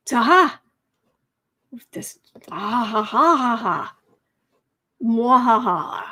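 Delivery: loud triumphant mwahaha cackle; mad scientist laugh. Pretend. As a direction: cackle like a villain whose plan worked. Chat fix triumph cackle.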